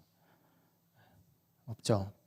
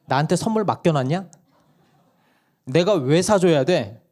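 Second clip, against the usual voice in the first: firm, mock-indignant mother, higher and louder; blunt wife; 5 semitones higher, 4 dB louder than usual. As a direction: flatly refuse like a no-nonsense mom. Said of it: "우리 단호박 아내가". (아이에게 선을 긋는 단호한 아내, 높고 큰 목소리)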